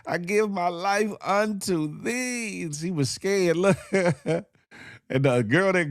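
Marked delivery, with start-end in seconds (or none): 0.1-2.6 slow, high hammed-up prayer; mock prayer. Host mocking the woman praying in shallow water, high and slow. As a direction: play her giving up to the Lord, overdone. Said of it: "She laid back like".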